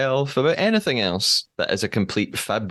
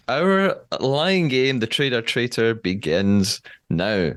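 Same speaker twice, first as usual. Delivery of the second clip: slow, drawn-out dramatic announcement; game show announcer. Acted. Host kicking off the lying game, slow dramatic announcement. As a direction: draw it out like a game show host launching the round.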